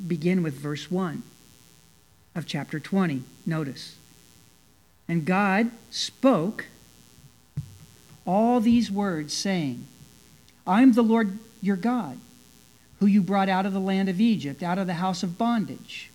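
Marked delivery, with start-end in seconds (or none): 5.1-16.1 scripture reading. A narrator's reading. Preacher reads the commandments' opening to the congregation, solemn scripture reading. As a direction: read the verse out deliberately, with long pauses.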